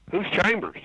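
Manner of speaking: high-pitched puzzled back-and-forth; retold bafflement. Storyteller replaying mix-up at the Gibbs area, puzzled. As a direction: act out the confusion, pitch jumping up.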